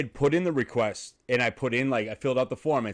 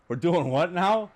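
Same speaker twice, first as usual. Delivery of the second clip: higher, slow incredulous question; mock bewilderment; 5 semitones higher, slower than usual. Client blindsided by the tattoo artist's plan, playfully incredulous. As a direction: draw it out, baffled and amused. Retelling his confusion, amid laughter.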